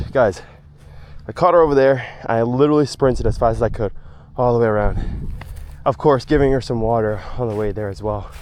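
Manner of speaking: excited. Real, not acted. Explaining after sprint.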